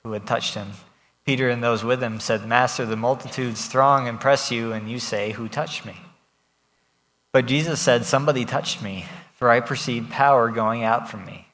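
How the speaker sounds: measured, even Bible reading to the congregation; scripture reading. Acted. Pastor reading the Gospel passage aloud to the congregation, measured. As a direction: read the passage out with care.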